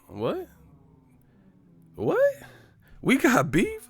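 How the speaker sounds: very high, loud, startled; outraged shock. Retold or imitated. Adult shocked a little kid cussed at him, high outraged squawk. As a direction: squawk back in disbelief.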